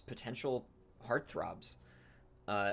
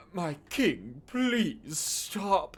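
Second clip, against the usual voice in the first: a hint of a breathless elven guard, higher; pleading guard; 7 semitones higher, 6 dB louder, much slower than usual. Elven guard begging his young king to stop, mildly breathless. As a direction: call after the running king, pleading.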